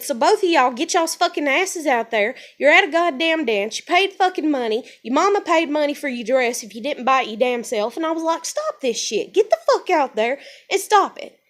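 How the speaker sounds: retold furious lecture; angry scolding. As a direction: tear into them like a mad big sister. She scolds the fighting girls.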